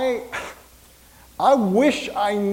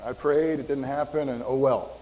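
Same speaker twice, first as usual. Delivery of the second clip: lightly acted resignation, pitched lower; resigned self-doubt; 4 semitones lower than usual. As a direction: give up with a half-hearted "oh well". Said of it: "our own insecurities and our fears".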